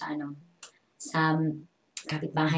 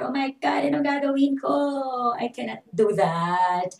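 mock panic; 8 semitones higher, 4 dB louder than usual. Retelling panicked teacher moment.

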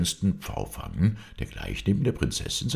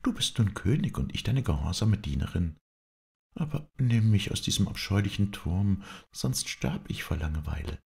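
lightly voiced princess, slightly higher pitch; pleading princess; 4 semitones higher than usual. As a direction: plead as a bored young princess. Princess begs her brother. (leicht gespielte, flehende Prinzessin)

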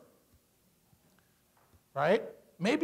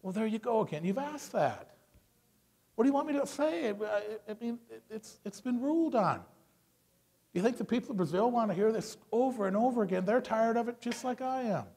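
softer, weary disappointment; disappointed; 4 semitones higher, 5 dB quieter than usual. Shown as a demonstration. Politician answering a repeated question, disappointed. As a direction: sigh it out, let down rather than angry. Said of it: "he's almost disappointed".

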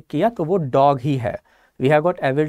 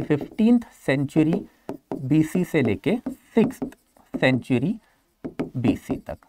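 writing-out pace. Shown as a demonstration. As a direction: say it piece by piece as you write it down. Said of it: "इसको मैं लिखते वक्त".

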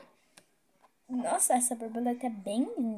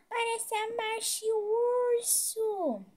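squeaky cute voice; 10 semitones higher, slower than usual. Pretend.

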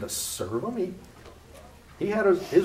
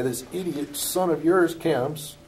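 contemptuous son; 5 semitones higher, slower than usual. Retold or imitated. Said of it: "what he really wanted to say".

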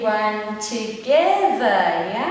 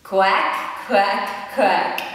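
duck quacking; 4 semitones lower, much slower than usual. Acted. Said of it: "the duck says".

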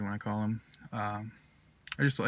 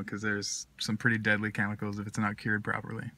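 talking around pipe stem; pipe in mouth. Real, not acted. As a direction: lips clenched on pipe. Seen 0: Pipe stem held between lips throughout the labelled words.

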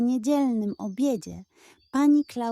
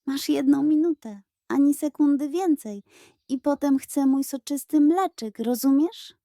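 gruff grumble; 4 semitones higher, 3 dB louder than usual. Acted. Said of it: "a potem burknęła".

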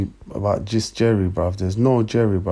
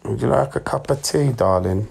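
posh lady voice; 3 semitones higher than usual. Acted. Mock offer of tea.

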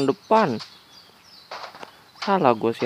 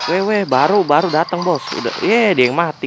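excited shouting; 4 semitones higher, 8 dB louder than usual. Real, not acted. Enemy dies just after arriving.

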